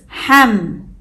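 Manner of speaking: "ham" said alone, closing on the m; isolated syllable. Shown as a demonstration. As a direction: set "ham" apart and close it on a hummed m. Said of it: "The second syllable is".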